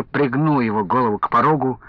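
usual speaking voice

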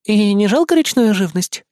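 high sweet vixen voice; sweet teasing fox. Acted. Vixen sweetly teasing the wolf cub about fish. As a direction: ask it sweetly, all smiles.

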